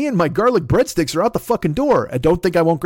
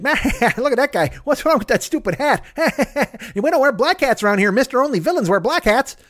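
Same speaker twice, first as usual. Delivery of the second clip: mock cowboy sheriff; 7 semitones higher than usual. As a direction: play the tough saloon cowboy for laughs. Cowboy scolds a loudmouth in a saloon.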